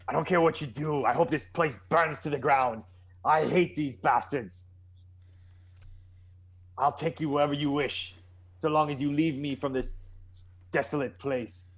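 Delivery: lightly voiced embittered exile; mildly acted bitterness, bargaining for a way out; bitter local character. Player speaks as his character.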